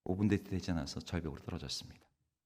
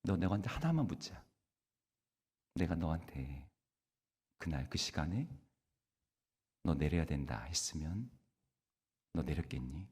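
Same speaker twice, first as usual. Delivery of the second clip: voice of God; 5 semitones lower, 4 dB quieter than usual. Retold or imitated. God's voice answers the pastor.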